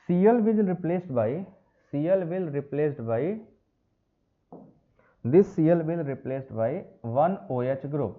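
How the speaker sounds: slow, deliberate, every word spaced out; slow dictation. Shown as a demonstration. Teacher dictating a line of notes slowly to students.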